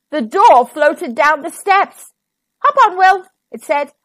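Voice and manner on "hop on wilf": high, loud, eager invitation; rallying storybook cry; calling aboard. A narrator's reading. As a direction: call him on board briskly. Door calls Wilf aboard.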